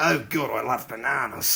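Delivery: low, put-on Australian accent. Asked to say banana in a sentence, speak in an australian accent. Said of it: "Say banana in an Australian accent".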